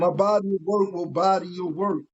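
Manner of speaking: mild emphasis on "body your work"; emphatic. Real, not acted. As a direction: say "body your work" as a firm, deliberate claim. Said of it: "he said that with emphasis".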